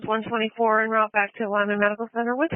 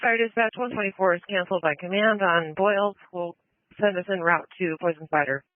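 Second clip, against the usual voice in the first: tinny radio transmission; like a voice on a two-way radio; over a radio; 3 semitones higher than usual. Real, not acted. Field unit calling on radio.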